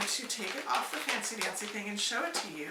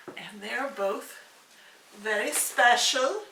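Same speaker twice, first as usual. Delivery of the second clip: odd emphatic delivery. Real, not acted. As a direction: lean on each phrase solemnly. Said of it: "I don't know why I'm talking like this".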